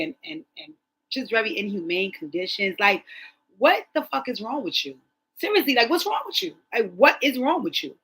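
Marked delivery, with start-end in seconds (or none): 3.6-7.9 higher, louder, exasperated demand; outraged at an abuser, demanding what's wrong with him; outraged disbelief. Real, not acted. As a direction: let the outrage climb up in pitch.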